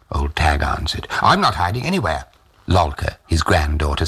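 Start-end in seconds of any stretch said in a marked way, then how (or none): 1.2-2.2 with distaste. Acted. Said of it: "said with distaste".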